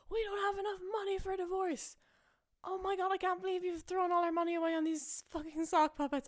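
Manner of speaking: high, outraged panic, cracking up; hammed-up shrill husband. Husband to wife, panicking about divorce money, shrill and high. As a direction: squeal it like a frantic husband. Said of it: "And he's like".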